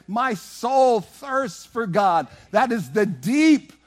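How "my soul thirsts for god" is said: slow quote. Acted. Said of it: "That's what David was saying".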